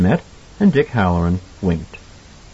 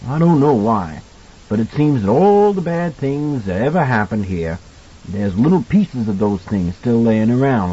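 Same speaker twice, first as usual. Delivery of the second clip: kindly cook explaining. Acted. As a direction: puzzle it out for the boy, lightly in character. Voices Halloran explaining the hotel.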